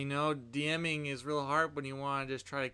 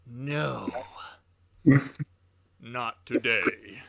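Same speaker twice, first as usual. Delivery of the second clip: defiant reply; 3 semitones lower, 6 dB louder, much slower than usual. Pretend. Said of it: "I'm gonna say".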